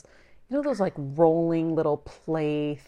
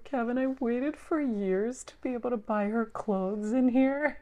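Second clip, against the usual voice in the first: high, thrilled gushing; excited squeal; 8 semitones higher than usual. Retold or imitated. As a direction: gush like an excited mom. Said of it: "I was like".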